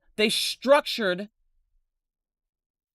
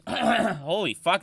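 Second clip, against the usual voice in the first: voice cracking; slower than usual. Real, not acted. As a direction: voice cracks mid-word. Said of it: "my voice cracked".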